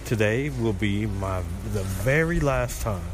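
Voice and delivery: echoey bathroom sound. Real, not acted. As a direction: voice bouncing off bathroom tiles. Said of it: "Y'all may hear the echo".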